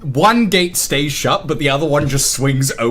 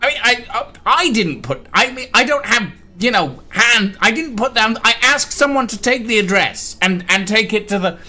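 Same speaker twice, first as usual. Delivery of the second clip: very high, loud, flustered excuses; panicked defensiveness; 9 semitones higher, 4 dB louder than usual. Acted. Second gate excuses putting down the address, frantic and defensive. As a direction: protest and backtrack in a high gate voice.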